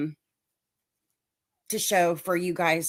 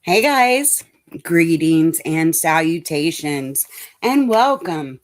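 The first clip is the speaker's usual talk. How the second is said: loud, bright welcome, pitched up; big stream greeting; 8 dB louder than usual. Real, not acted. Streamer greets chat in a loud, excited welcome. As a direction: burst in with a loud hello.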